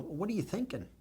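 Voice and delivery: high and soft, voice catching; moved, almost breaking; getting emotional. Real, not acted. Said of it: "I'm sorry to get emotional".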